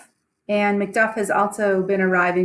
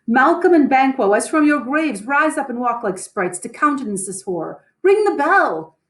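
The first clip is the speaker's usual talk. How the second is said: alarmed shouting; 5 semitones higher than usual. Acted. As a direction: yell the alarm through the halls. Macduff wakes the whole house.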